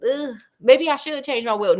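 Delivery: lightly voiced fretting doctor; a hint of a worried gentleman; imagined Jekyll. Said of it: "Doctor Jekyll would be like".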